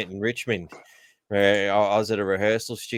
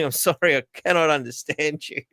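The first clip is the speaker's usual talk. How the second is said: put-on higher-pitched Chinese-accented English; imitated Chinese accent; 5 semitones higher than usual. Imitating a Chinese fast-food server to a customer, mock Chinese accent. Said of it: "The, the Asian said something".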